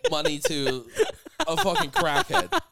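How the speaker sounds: helpless high-pitched laughing delivery; cracking up. Real, not acted. Friend teasing him for giving money away, laughing hard. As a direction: push the words out through big laughs.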